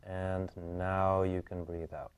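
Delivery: slow, drawn-out release cue; slow breathing cue. Real, not acted. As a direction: ease the client into the exhale, slowly. Releases client's held inhale, slowly.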